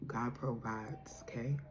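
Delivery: whispered, slow and soft. Shown as a demonstration. Whispering the message to the viewer, slow and hushed. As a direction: breathe it out gently as reassurance. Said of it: "whispered repeat of message".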